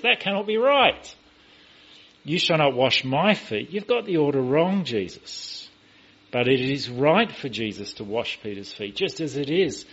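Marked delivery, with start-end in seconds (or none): 0.0-5.7 high, loud acted objection; disbelieving protest. Peter refuses to let Jesus wash his feet, loud disbelief. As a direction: object emphatically, voicing a retold disbelief. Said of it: "reluctance, almost a disbelief".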